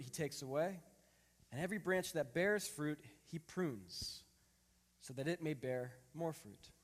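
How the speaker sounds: measured, solemn reading of scripture. Acted. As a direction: read the passage with weight.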